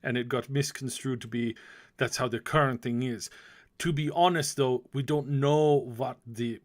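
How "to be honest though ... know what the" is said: put-on German accent. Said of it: "German accent".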